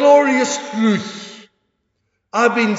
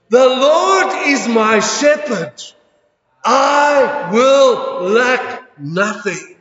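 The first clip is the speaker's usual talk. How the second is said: louder, bold declaration with the final words drawn out; like you mean it; 3 dB louder, slower than usual. Shown as a demonstration. Pastor leading the congregation in a bold declaration. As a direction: proclaim it with full conviction. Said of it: "Now say it like you mean it".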